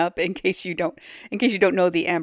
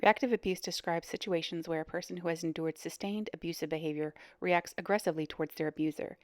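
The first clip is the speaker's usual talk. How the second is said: soft, measured explainer read; reading a definition; 6 dB quieter than usual. Real, not acted. Host reads viewers a definition of reactive abuse, measured read. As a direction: read it out softly, like a reference entry.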